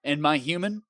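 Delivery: spiritually broken, low and tired; exhausted. Acted. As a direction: drag every word out like you're spent. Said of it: "I am exhausted".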